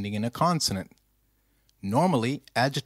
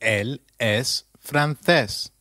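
slow model answer; slower than usual. Shown as a demonstration. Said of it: "Can you try that, please?".

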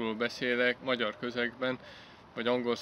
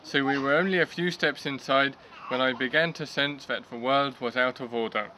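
clear, proper story reading; careful model reading in English; reading nicely. Shown as a demonstration. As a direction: read the passage nicely in English. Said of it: "then I will be reading nicely".

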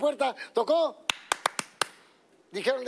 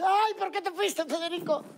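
mock wailing; 10 semitones higher, slower than usual. Widow wailing at the grave.

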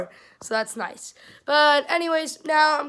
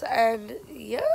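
voice crack; 3 semitones lower, 5 dB quieter than usual. Real, not acted. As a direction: voice cracking on yeah. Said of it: "that voice crack was horrible".

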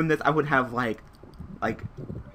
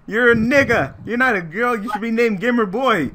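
mock disgust; 7 semitones higher than usual.

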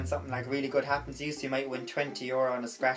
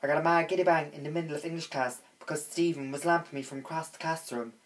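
put-on slangy teen girl; 2 semitones higher than usual. Shown as a demonstration. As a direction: gush to your friend in slang. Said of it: "it might go something along the lines like".

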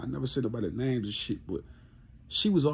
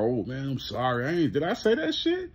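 mock apology. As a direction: mimic a guy playing dumb while apologizing. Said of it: "motherfucker come out".

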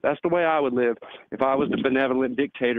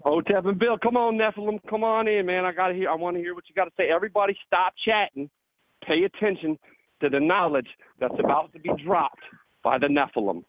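hype announcer; 5 semitones higher than usual. Real, not acted. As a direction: bring the guest on like a hype man. Host hyping guest's entrance.

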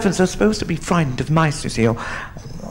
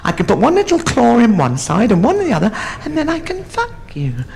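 lightly voiced mouse, pitched up; little mouse; 6 semitones higher than usual. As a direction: explain it as a small, high-voiced mouse. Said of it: "He said".

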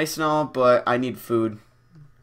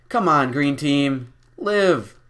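cheering team on; 2 semitones higher, 4 dB louder, much slower than usual. Real, not acted.

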